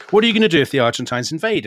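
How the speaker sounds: a hint of a heckler calling out, fast; mild mock shout. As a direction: throw it out quickly like a heckle. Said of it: "somebody shouts from the audience".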